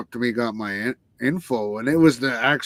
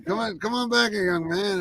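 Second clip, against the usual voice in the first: retold call from B B King; 7 semitones higher than usual. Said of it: "He's like".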